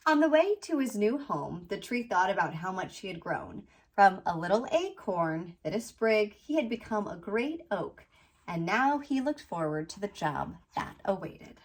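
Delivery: picture-book read-aloud, landing gently on the rhymes; storybook narration. A narrator's reading. Author reading her children's book about a little tree, storybook narration. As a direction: read to children with lilting, measured phrasing.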